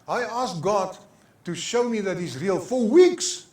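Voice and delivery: put-on high, loud, building insistence as a child; child impression, rising to a loud finish; imitated grandchild. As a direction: imitate a granddaughter testifying excitedly. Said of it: "That's how she said it".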